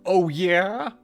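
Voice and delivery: high, loud taunting question. Acted. Taunt repeated higher.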